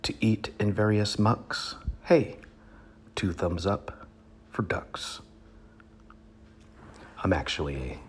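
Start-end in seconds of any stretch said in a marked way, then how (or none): 0.0-5.2 a sudden high yelp of Hey, then a hushed two thumbs up; performed cheer. Shown as a demonstration. Comic reader demonstrating to audience how he'd cheer the ducks, with a high hey. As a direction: show off the punchy Hey, then drop it to a hush. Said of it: "And I do it like this".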